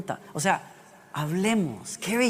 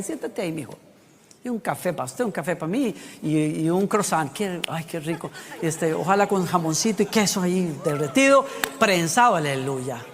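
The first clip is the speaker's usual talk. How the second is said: cozy invitation; 3 semitones lower than usual. Pretend. God chats with Caín over coffee.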